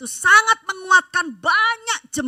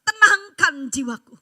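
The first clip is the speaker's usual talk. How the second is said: anxious prayer; 2 semitones higher, 4 dB louder than usual. Retold or imitated. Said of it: "saya bilang sama Tuhan".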